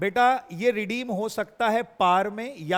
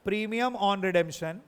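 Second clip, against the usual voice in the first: "premium on redemption" said very slowly, each word apart; slow dictation; much slower than usual. Shown as a demonstration. Teacher dictating the entry for students, very slowly. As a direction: stretch it out for the class to note down. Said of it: "नीचे आ जाएगा".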